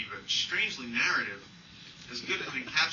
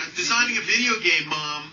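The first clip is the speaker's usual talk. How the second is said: put-on indignant kid; 4 semitones higher, 10 dB louder than usual. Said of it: "my mom went".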